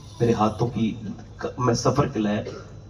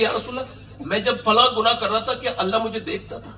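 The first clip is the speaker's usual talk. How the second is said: higher pleading question; 10 semitones higher than usual. Retold or imitated. Repentant man questioning the Prophet.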